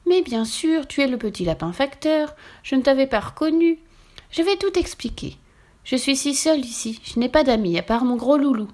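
a lonely witch owning up to the postman; high witch voice, sorry and wistful. Acted. Witch confesses stealing letters.

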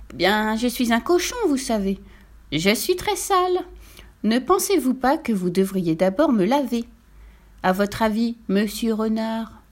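lightly voiced polite little pig; wheedling piglet. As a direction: coax the fox politely. (petit cochon poliment enjôleur)

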